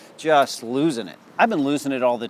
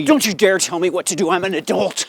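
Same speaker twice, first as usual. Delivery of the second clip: angry yell; 4 semitones higher, 5 dB louder than usual. Retold or imitated. Yells at new mom.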